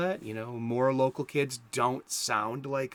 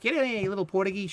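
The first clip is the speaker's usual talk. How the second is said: mom calling; 7 semitones higher, 3 dB louder, much faster than usual. Retold or imitated. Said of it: "my mom even called me a little Portuguese".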